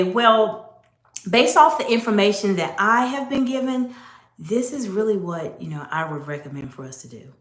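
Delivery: letting the end drop and fade; voice going down. Shown as a demonstration. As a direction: trail downward so it sounds unsure. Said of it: "or they may even go down".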